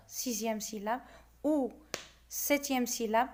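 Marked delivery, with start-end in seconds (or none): 1.4-1.7 "Ou" set apart as one beat; "Ou" as a lone, distinct syllable; isolated syllable. Shown as a demonstration. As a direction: count off "Ou" by itself. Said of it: "on va découper les vers".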